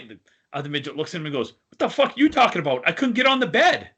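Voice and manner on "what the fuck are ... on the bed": indignant shout. Retold or imitated. Punchline, indignant midget.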